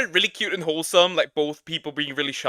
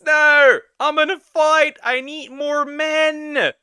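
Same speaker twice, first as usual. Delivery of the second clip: higher, louder, hammed-up; mock gamer shout; 8 semitones higher, 4 dB louder, slower than usual. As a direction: yell for backup in a fight. Mock gamer yelling for backup.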